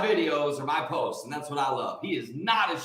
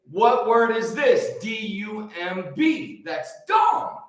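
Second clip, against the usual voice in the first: put-on child sounding out; 3 semitones higher, slower than usual. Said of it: "all children are gonna say".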